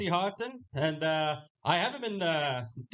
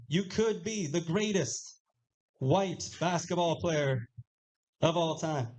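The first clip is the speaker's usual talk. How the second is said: mock pep talk; slower than usual. Dad's mock pep talk to son.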